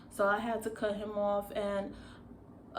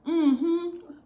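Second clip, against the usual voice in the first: put-on African accent; 8 semitones higher, 9 dB louder than usual. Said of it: "that's in my African accent".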